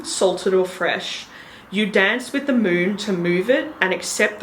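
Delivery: solemn, rising ceremonial declaration; ritual invocation. Retold or imitated. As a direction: proclaim it like a ritual. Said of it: "did I yell that".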